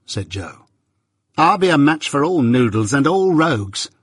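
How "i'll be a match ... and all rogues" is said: higher, combative retort; mounting rage. Acted. Sister taking on the journeyman, mounting rage. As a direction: work yourself up into a rage. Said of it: "beginning to work herself into a mighty rage".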